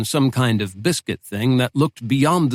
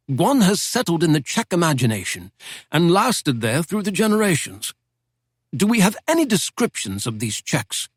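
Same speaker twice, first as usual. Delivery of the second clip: put-on a lightly raised, genteel old don's voice; old British professor; 5 semitones higher than usual. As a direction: speak as a wry Oxford professor reminiscing. Professor lectures on Czechs.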